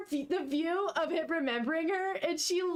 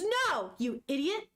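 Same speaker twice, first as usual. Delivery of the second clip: mock scolding; slower than usual. Acted scolding of misunderstanding.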